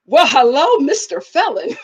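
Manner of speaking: teasing hello breaking into laughter; playful flirty greeting. Retold or imitated. Greeting the hot brother, playfully flirty. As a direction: greet him with amused relish.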